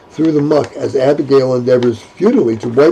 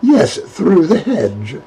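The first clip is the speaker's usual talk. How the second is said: prim; 3 semitones higher, slower than usual. Acted. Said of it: "pursing her lips".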